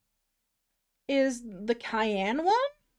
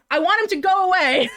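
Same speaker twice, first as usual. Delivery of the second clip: high, loud laughing whine; laughing mock whine; 5 semitones higher, 5 dB louder than usual. Real, not acted. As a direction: whimper it through a laugh. Whining about game character, laughing.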